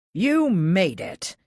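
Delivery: loud, slow, delighted "You made it!"; excited welcome. Acted. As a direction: greet her warmly and loudly, drawing it out. Old friend greets her arrival.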